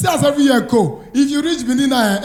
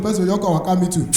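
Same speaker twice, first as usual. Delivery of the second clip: ordinary delivery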